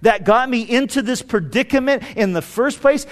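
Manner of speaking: acted astonishment, pitch lifted; can hardly believe the good news; amazed disbelief. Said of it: "in his heart it was like".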